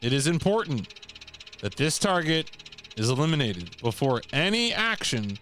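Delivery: formal, measured briefing narration; mission briefing read. Acted. Player reading assassination orders aloud, formal briefing read. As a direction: read it out like official orders, pausing between phrases.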